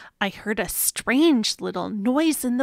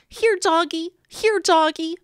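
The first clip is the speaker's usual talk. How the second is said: calling out; 4 semitones higher than usual. Acted. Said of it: "I called and called".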